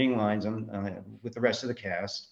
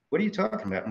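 mock outraged New Yorker, much higher; retelling the owner's high, startled comeback; incredulous; 10 semitones higher, faster than usual. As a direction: pitch jumps way up in disbelief. Theater owner taken aback.

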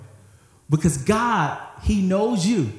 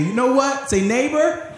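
much higher, bright call to the neighbor; 8 semitones higher than usual. Shown as a demonstration. Preacher leading the congregation to call to their neighbor, much higher. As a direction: call across to your neighbor. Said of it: "look at somebody else and say".

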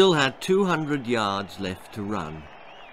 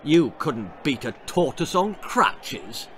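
sneering; 2 semitones higher than usual. Acted. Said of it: "sneered Anthony".

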